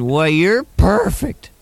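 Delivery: slow, clenched Kirk Douglas drawl; Kirk Douglas impression. Kirk Douglas greeting a newcomer, slow, clenched impression. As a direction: hold each word like Kirk Douglas. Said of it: "I don't know why I talk like this".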